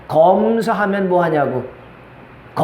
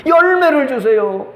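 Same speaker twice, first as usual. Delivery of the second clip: slow, drawn-out imploring prayer; acted tearful plea; 2 semitones higher, slower than usual. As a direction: beg God, stretching each phrase. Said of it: "하나님 앞에 나와서 눈물을 흘리는 거야". (길게 늘여 간절히 애원하는 기도)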